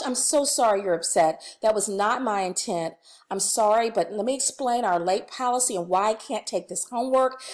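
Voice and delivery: calm, reassuring to a crying student; reassuring explanation. Shown as a demonstration. Teacher reassures crying student Lynn about late homework. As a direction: soothe Lynn while holding the rule. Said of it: "student crying in front of you".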